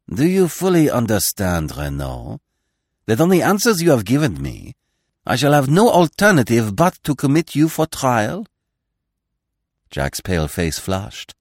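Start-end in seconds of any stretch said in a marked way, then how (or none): 0.1-8.5 rising, pressing question; searching. Acted. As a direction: press him, watching closely. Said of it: "gazed at the prisoner searchingly".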